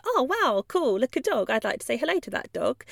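lightly chirpy pup spotting a friend; happy dog voice. Pretend. Confident dog greeting another dog, lightly eager. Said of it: "they might go".

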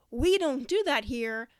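firm, slow, stress on do; firm modelled phrase. Shown as a demonstration. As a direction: lean on "do" in "We don't do that here". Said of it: "Now, you say".

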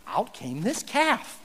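slowly drawn-out mock innocence; innocent excuse. Aaron claiming the calf simply appeared, slowly and innocently. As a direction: act amazed it just appeared. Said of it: "he says".

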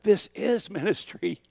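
high, slow whisper "This is ministry". Retold or imitated. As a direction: breathe it like a voice from within. Hearing God's answer.

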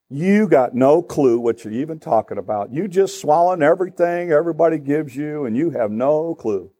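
smug, dismissive put-down, dragging the insults; self-righteous contempt. Acted. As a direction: look down on someone who disagrees. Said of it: "What's my attitude towards you now?".

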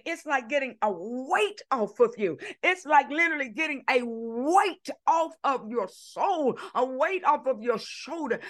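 rhythmic, emphatic sermon repetition; impassioned preaching. Real, not acted. Preacher describing a weight lifted from the soul, impassioned. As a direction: lean on each repeat like a preacher.

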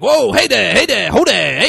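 loud, high trainer calling off animals; yelling. Retold or imitated. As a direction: holler commands, mimicking a raptor trainer. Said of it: "He's yelling, he's like".

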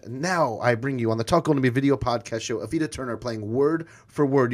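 lively host introducing a game; game-show announcer. Acted. Host brings guest on to play the game, game-show announcer. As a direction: present the contestant with showmanship.

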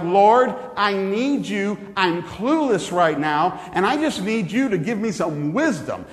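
earnest, pleading everyday prayer; plain heartfelt prayer. Shown as a demonstration. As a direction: beg for help like to a friend. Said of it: "my prayer sounds more like".

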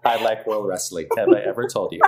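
monotone robot voice; flat robotic delivery. Pretend. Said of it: "this robot voice is like".

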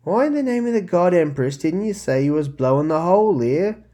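loud, high, snapping retort; spat back. Acted. Vec snapping back at Lyria over the bomb, angry and loud. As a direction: bite back at her in a loud huff. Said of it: "Vec spat back".

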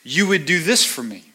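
demanding of God. Retold or imitated. A believer bargaining with God, rising insistent pleading. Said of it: "So I think to myself".

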